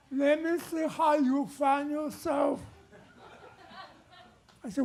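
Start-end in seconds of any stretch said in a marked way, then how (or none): 0.1-2.6 mock Chinese accent. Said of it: "Chinese guy says".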